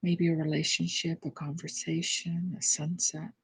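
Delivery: unhurried prayerful guidance, softening as it goes; guided meditation. Real, not acted. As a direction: gently lead them inward, with pauses between phrases. Leads prayerful guided reflection.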